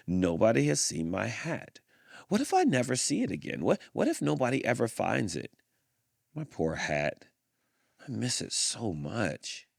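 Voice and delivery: hammed-up sorrow over a lost hat; a bear moaning over his hat; mock sad bear.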